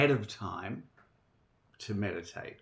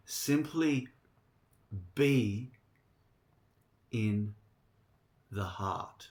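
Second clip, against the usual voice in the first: guided meditation. Real, not acted. Gives the meditation instruction.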